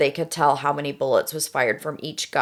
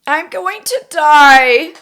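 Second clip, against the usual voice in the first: put-on high, pleading frightened girl; 911 caller; 8 semitones higher, 9 dB louder, slower than usual. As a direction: beg for help, panicked. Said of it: "I am going to be Melissa".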